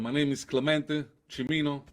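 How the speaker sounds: real Italian-accented English. Real, not acted. Guest chef says his name for the host, Italian accent. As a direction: introduce yourself with an Italian accent. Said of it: "your nice Italian accent".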